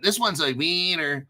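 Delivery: lightly put-on South American accent. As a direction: joke South American accent, long "ee" in "wiener". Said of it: "That's my South American accent".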